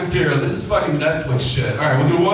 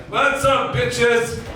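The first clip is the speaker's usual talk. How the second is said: excited; 8 semitones higher, much slower than usual. Real, not acted. Hyped greeting to crowd.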